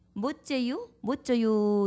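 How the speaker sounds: Chungcheong regional dialect accent. Showing how the Chungcheong dialect would say it: Chungcheong dialect. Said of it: "충청도 사투리는".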